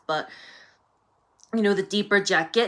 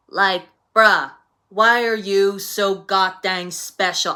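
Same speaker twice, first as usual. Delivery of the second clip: louder, slow, exasperated bruh; exasperated rant; 5 dB louder, slower than usual. Real, not acted. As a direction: drag it out, fed up with him.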